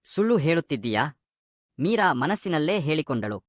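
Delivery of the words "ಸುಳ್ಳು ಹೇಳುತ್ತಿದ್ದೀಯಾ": suspicious question. A narrator's reading. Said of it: "ಅನುಮಾನದಿಂದ ಕೇಳಿದರು".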